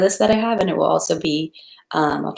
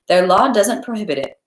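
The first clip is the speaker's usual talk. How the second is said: hostess joking; 4 semitones higher, 4 dB louder than usual. Acted. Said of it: "she said to the butler".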